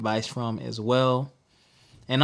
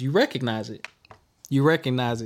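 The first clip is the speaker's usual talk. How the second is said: words catching on a sip of water; choking on water. Real, not acted. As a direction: talk through a choke on water. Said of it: "Choking on my water".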